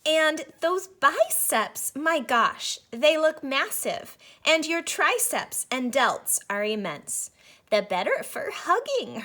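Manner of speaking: put-on a child sensing something's off; wary little girl. A narrator's reading. Red questioning fake granny.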